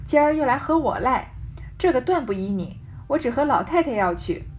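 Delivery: measured reading of a classic novel, phrase by phrase; story narration. Acted. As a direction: read the old text aloud with deliberate pauses. Reads the novel's text aloud.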